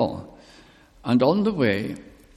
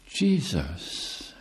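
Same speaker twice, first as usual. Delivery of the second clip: quiet, simple, unadorned; just say the name softly; simple answer; 2 semitones lower, 5 dB quieter than usual. Retold or imitated. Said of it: "he just said simply".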